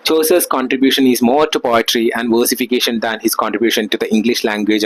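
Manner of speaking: reading each word out very slowly, like dictation; slow textbook reading. Acted. Teacher dictating notes to students, very slowly. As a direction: read the notes out for the class to copy. Reads English text aloud slowly.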